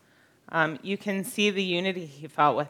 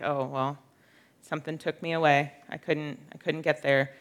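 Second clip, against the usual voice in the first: offhand shrug; 2 semitones lower, 4 dB quieter than usual. Acted. Speaker mimics a too-soft reading of being taken away, offhand. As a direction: toss it off as a mild excuse.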